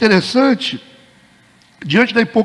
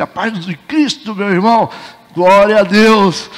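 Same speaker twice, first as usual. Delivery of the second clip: mock pious greeting; slower than usual. Hypocrite greets pastor piously.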